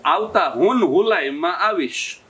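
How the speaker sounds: "હુન હુલાઈમાં" with h in place of j; slow "હુન હુલાઈમાં", j turned to h; overcorrected h. Retold or imitated. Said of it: "જૂન જુલાઈનું હુન હુલાઈ ક્યાં કરવાનું".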